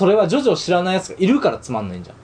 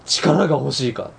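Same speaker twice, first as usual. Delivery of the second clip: slow, tempting villain; slower than usual. Pretend. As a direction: offer power like a dark villain. Quoting Jabberwock from ARMS.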